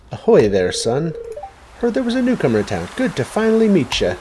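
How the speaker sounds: a hint of a salty old fisherman greeting; sailor voice. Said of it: "I could do voices".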